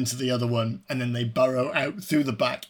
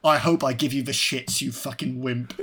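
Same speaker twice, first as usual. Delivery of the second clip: quoted tough-guy line. Retold or imitated. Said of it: "he has a great line".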